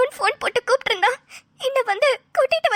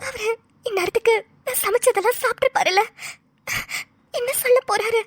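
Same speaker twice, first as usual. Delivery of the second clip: fearful sobbing; 2 semitones higher than usual. Acted. Wife fears husband's verdict.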